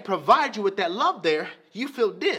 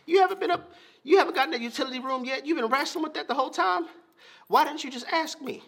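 amused dad; 6 semitones higher, faster than usual. Retold or imitated. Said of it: "He's like".

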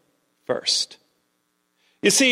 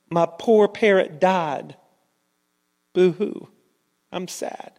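half-hearted boo-hoo, trailing to a voiceless finish; mock sad. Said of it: "she has this sad, gloomy face".

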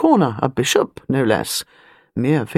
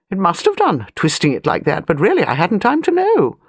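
a hint of a bossy elderly aristocrat, higher; an old lady of rank, talking down a little; airy grande dame, lightly done; lightly voiced imperious old lady; 4 semitones higher than usual.

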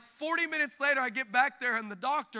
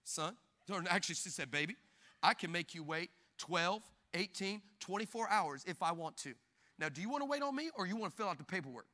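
a lightly voiced receptionist, low, soft and fast, full of sass; with attitude; 5 semitones lower, 7 dB quieter than usual. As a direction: put him in his place, calmly smug. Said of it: "looked at me with all the attitude".

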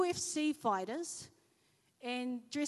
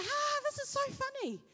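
giggly laugh. Retold or imitated. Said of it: "I would giggle and laugh".

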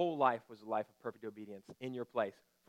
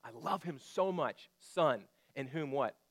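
fatherly declaration; slower than usual. Acted. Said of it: "in an audible voice says".

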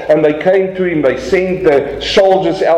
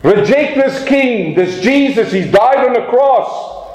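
high, hammed-up mocking tyrant voice, opening with a shout; persecutors' demand; 5 semitones higher than usual. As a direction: sneer at the weak king like a Roman official. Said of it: "And they came and they said".

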